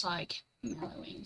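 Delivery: soft whisper so the cat stays calm; a quick real whisper. Real, not acted. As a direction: hush it, the cat's hiding. Cat hiding nearby.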